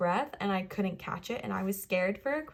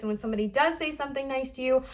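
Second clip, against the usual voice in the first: out of breath, gasping between words; running out of air mid-sentence; short of breath; 3 semitones higher than usual. Real, not acted. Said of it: "I feel myself getting short of breath".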